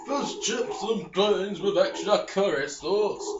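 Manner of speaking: droning mock British blah-blah; a hint of a mock British accent. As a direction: parody the NPC's dialogue in a lazy British accent. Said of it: "in that accent".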